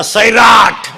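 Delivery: punchy shout of the title; loud call. Real, not acted. Speaker wants children shouting the film title, loud call. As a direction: belt out the answer to the crowd. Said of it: "जोरात बोला".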